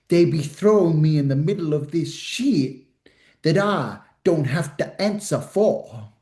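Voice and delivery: slow, drawn-out rapper impression; unhurried mock rapper drawl with pauses. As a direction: imitate a laid-back rapper, lingering on the words. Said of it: "I'll do my rapper impression".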